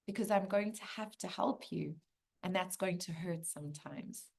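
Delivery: soft, understated sorrow; gentle, mildly sad old soul. Acted. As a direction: say it quietly, with a touch of sadness. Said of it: "there's sadness in the old soul's eyes".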